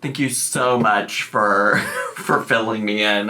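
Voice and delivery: slow, dripping sarcasm; sarcastic. Acted. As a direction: drag out fake gratitude. Sarcastic thanks.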